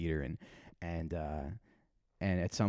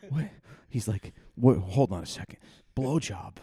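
puzzled, working it out aloud, rising to a high squeak; mock-baffled student piecing it together; confused kid; 5 semitones higher than usual. Student puzzling over the insult, mock baffled. Voicing kid's slow confusion.

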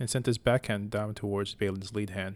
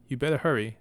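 a firm warning, a bit higher and louder; 3 semitones higher, 4 dB louder than usual. Acted. Sir Balin to his dawdling brother, firm warning. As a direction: press him to hurry up. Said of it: "Sir Balin warned".

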